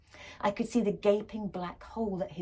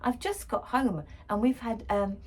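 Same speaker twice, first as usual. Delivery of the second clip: dad complaining; 3 semitones higher, 4 dB louder than usual. Acted. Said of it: "Dad complained".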